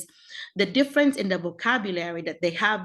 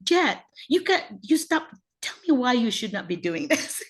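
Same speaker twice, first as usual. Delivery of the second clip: middle-class parent; 3 semitones higher than usual. Acted. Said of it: "acting like a middle class".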